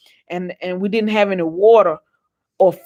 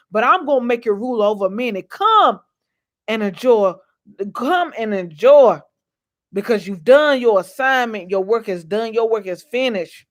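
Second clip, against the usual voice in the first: God's voice. Retold or imitated. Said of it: "And I want him to say".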